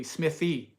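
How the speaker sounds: "Smithy" with the th of thin; corrected pronunciation. Shown as a demonstration. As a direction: stress the added th in "Smithy". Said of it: "they add the".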